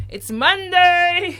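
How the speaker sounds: high, loud, drawn-out cheer; excited cheer. Real, not acted. Host hailing the new week to co-host, excited cheer. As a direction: stretch it out with rising excitement.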